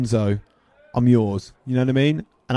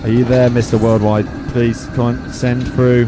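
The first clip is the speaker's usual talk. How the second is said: séance medium; 3 semitones lower than usual. Acted. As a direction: call out to the spirit like a hammed-up medium. Calls on a rapper like a séance.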